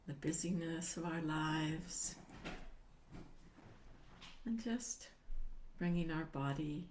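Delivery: calm settling-in voice with long pauses; guided meditation. Acted. Meditation teacher helping listeners arrive and feel themselves sitting, calm guiding voice. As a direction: gently guide listeners into stillness, phrase by phrase.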